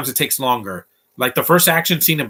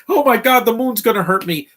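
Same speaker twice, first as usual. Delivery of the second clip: shrill, much higher and louder, hammed-up terror; mock panic; 10 semitones higher, 4 dB louder than usual. Mocking the movie's characters in a loud, high, hammed-up panic.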